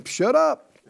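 mock self-rebuke. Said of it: "you're a faith person, you go".

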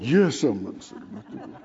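a touch of a sulking Jonah answering God; sulky Jonah. Acted. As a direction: mutter it like a pouting prophet.

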